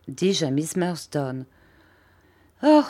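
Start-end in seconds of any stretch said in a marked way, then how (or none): 2.6-2.8 a sighed "Oh!". A narrator's reading. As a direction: let out a sighing oh. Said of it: "en soupirant". (« oh » soupiré)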